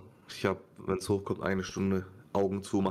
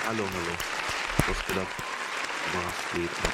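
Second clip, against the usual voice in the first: sleepy voice; 4 semitones lower than usual. Real, not acted. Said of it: "deine verschlafene Stimme hört sich unnormal erotisch an".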